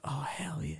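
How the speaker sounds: high, hushed mock cheer; soft, high-pitched retold reaction; retold delight. Drunk winner reacting to free beer, hushed high delight. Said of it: "And I was like".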